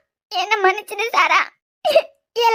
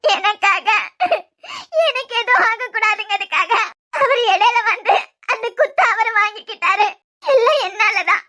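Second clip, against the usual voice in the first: sobbing. Acted. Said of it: "தியா, அழாம சொல்லுங்க".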